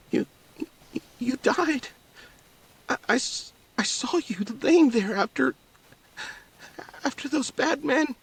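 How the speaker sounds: put-on a young girl seeing her dead father alive; the daughter tells her father she saw him die, in a high tearful voice; disbelieving daughter.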